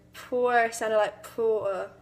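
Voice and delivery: second "poor" drawn out into a vowel; R-dropped "poor". Shown as a demonstration. Student attempting Forrest Gump-like talk, last "poor" without its R. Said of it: "just envision Forrest Gump talking".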